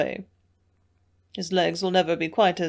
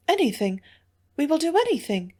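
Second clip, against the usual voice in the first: higher, eager promise; eagerly pitched-up woman's pledge; eager offer; 7 semitones higher than usual. A narrator's reading. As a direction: jump at the chance to help. Hilda eagerly offers help.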